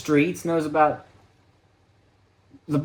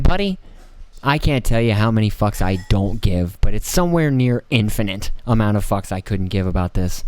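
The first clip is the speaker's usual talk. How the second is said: blunt dismissal; 3 semitones lower, 4 dB louder than usual. Pretend. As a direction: drop low and drag it out, not caring. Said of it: "you're like".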